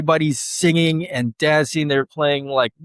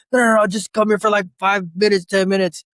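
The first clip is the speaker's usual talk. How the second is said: higher, insistent coaxing; pushy friends; 8 semitones higher than usual. Retold or imitated. Childhood friends urging him to come, insistent. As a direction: imitate friends begging him. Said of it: "They're like".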